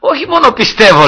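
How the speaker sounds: high, loud retold comeback; emphatic declaration. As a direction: answer the doubter with full conviction. Retold proud answer to friend. (δυνατή, εμφατική δήλωση πίστης)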